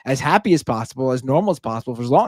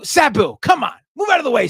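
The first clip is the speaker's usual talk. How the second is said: higher, brisk shooing the cat; mildly impatient; 10 semitones higher than usual. Retold or imitated. Telling the cat Sabu to move, mildly impatient. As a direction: shoo the cat along with mild exasperation. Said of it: "we go".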